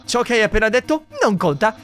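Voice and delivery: lightly voiced boastful skeleton; proud, theatrical date talk; Papyrus voice. Streamer voicing Papyrus on the date, boastful.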